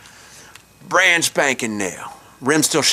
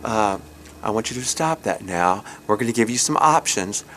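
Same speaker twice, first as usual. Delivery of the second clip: put-on mother to toddler; 3 semitones lower, 5 dB quieter than usual. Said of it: "gets down on her knee and she goes".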